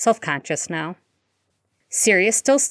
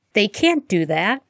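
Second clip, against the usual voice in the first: fierce; 3 semitones higher than usual. Acted. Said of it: "Harry cried fiercely".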